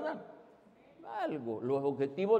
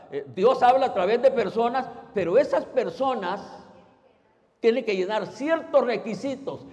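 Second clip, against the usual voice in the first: ordinary delivery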